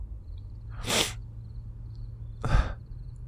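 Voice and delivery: soft, breathy sigh; long sigh. Acted. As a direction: let out a long, quiet breath. Guilty, upset pause.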